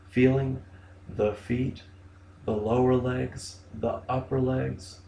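unhurried meditation guidance in short, spaced phrases; guided body scan. Shown as a demonstration. Therapist leading clients through a body scan, guided meditation delivery.

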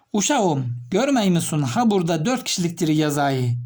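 lightly put-on Black Sea Turkish accent. Shown as a demonstration. Teacher showing students a regional dialect, Black Sea accent. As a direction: give the example in a Karadeniz dialect. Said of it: "Bunu Karadenizliler böyle kullanıyor".

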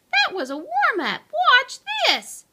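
high, loud, fast bragging; excited boast. Acted. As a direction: show off to the cat. Hamster boasts to cat.

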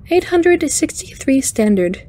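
high, lilting spider alien; cheerful alien speaking high; chiming alien voice. Acted. Alien answers Kirk.

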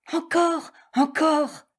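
high, gleeful calling out; gleeful cry. A narrator's reading. The gnat cheers the puffing lion, high and gleeful. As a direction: cheer him on in delight. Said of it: "s'amusait de tout son cœur et criait".

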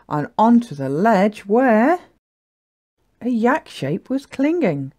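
measured, lilting picture-book reading; story narration. A narrator's reading. Narrator telling children about a little yak, lilting storytelling. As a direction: read the rhyme with bouncy emphasis.

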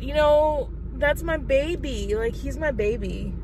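tearful, holding it together; teary. Real, not acted. Mom missing her son at school, tearful. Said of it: "I feel so dumb for crying".

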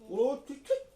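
high yelling honk; shouting. Real, not acted. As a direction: yell it high and loud. Mock honking at teammate.

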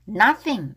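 "nothing" with a clear th; TH sound. Shown as a demonstration. Teacher drilling learners, th sounded in "nothing". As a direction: say "nothing" minding the th. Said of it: "티에이치 발음".

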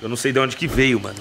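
talking with the hiccups; hiccuping. Real, not acted. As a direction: hiccups breaking into speech. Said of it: "eu tô com soluço".

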